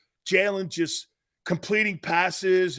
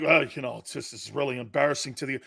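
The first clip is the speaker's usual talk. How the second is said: mock whine; 5 semitones lower, faster than usual. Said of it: "people are like".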